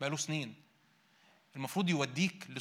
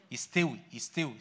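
يستوي، يستوي stretched slowly; slow and drawn out; 4 semitones lower than usual. Acted. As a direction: let يستوي، يستوي simmer slowly. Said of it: "سويه كده على نار هادية".

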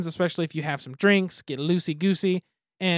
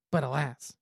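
dramatic alas; 6 semitones higher, much slower than usual. Acted. Dramatic story ending exclamation.

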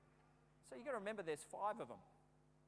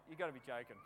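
lower, chuckling through the words; laughing disbelief; 6 semitones lower, faster than usual. Retold or imitated. Watching the boy go down again, laughing in disbelief.

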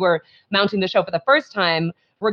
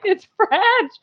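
mock French accent; 13 semitones higher than usual. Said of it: "and we're like".

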